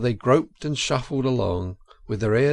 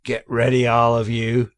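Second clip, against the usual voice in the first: firm order; 5 dB louder than usual. A narrator's reading. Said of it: "said the Badger".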